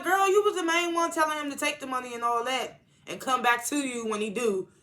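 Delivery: like yelling at the TV, fed up; exasperated disbelief. Retold or imitated. Speaker exasperated at annoying character.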